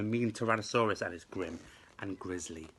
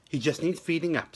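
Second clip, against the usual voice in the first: higher, louder cheery dad; dad reassuring mum, louder and higher; hearty dad voice; 6 semitones higher, 6 dB louder than usual. A narrator's reading. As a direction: boom it out like a jolly dad. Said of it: "said Dad".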